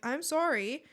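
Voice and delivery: mock rant. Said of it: "and I'm like".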